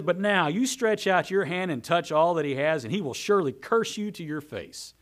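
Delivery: loud, insistent dare; adamant Satan. Acted. Satan daring God to strike Job, adamant and mocking. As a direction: dare the Lord with a touch of sarcasm. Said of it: "Adamant, sarcastic".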